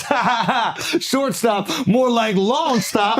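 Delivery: imitating a tipsy friend yelling his joke; mock gloating shout. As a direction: crow the pun like a rehearsed zinger. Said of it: "Al has one line".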